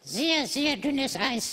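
very slow, low ominous warning. Acted. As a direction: drag out each word as a threat.

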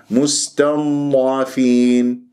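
slow recited مستضعفين with a held heavy ض; unforced dad. Shown as a demonstration. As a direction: let the ض of مستضعفين flow without straining, long final ee. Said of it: "لاحظتم الآن".

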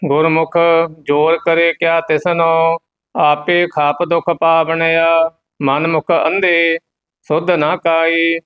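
level, monotone Gurbani chant; measured devotional reading; scripture recitation. Acted. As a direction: recite on one steady note with a held ending.

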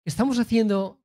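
lightly voiced Catalan accent; slight Catalan accent. Imagining the pirate hero dubbed, slight Catalan accent. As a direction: put on a hint of Catalan accent. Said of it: "con acento un poco catalán".

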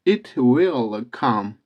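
will drawn out slowly, almost "wi-al"; model pronunciation of will. Shown as a demonstration. Teacher shows how will is read, slow stretched will. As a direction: stretch will, vowel between i and ı. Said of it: "aslında o will gibi okunur".

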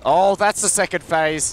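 startled exclamation; surprised. Real, not acted. Surprised at boss second phase.

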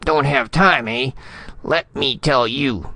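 high-pitched affronted retort; indignant bark. A narrator's reading. Ambassador rounding on his subordinate, barking indignantly. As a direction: throw the excuse back, indignant. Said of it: "Spradley barked".

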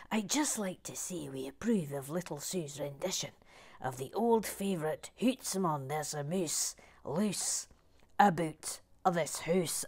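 attempted Scottish accent, partly hushed. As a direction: have another go at a Scottish accent. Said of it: "another crack at your Scottish accent".

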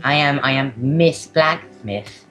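lightly voiced blacksmith's wife writing her diary; diary reading voice. Reads diary as Miss Blacksmith.

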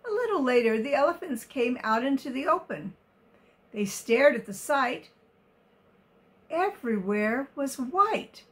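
put-on reading a picture book to children; story narration. A narrator's reading. Reader telling of the elephants in the open, expressive story narration. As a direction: tell it expressively, every word carefully placed.

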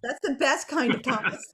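chuckling through the line; amused, a laugh breaking in; laughing at her own joke. Real, not acted. Joking about a fake Thomas train.

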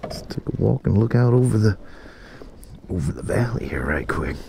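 muffled through a helmet; talking inside a helmet. Real, not acted. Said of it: "Sorry if I sound muffled, I'm talking through my helmet".

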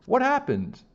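high loud urgent question; custodian asking. Acted. Custodian arriving and asking the principal, loud high question. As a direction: demand the story at once.

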